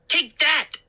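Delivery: high playful fighting shout; playful battle cry. A narrator's reading. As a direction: yell it as a mock punch. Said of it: "He pretended to punch".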